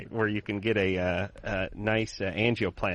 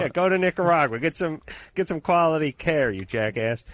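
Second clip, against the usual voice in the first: mock yell at patients; 5 semitones higher than usual. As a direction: playfully yell at a deadbeat patient. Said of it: "yell at your, uh, patients".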